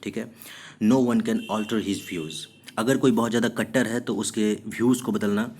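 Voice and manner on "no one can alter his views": very slow, clear reading; teacher dictating example; slow example sentence. Shown as a demonstration. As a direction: read the example word by word. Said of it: "Bigot मतलब क्या होता है?".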